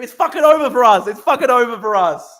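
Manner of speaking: loud despairing rant; shouting. Real, not acted. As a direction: yell it out in despair. Ranting shout about rival streamer.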